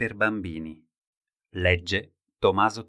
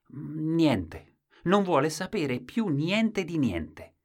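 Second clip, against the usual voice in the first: lightly voiced wife; 8 semitones higher, 3 dB louder, much slower than usual. Wife answers visitors.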